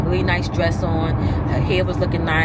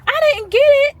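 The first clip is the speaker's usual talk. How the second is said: retold protest; 6 dB louder than usual. Retold phone quarrel.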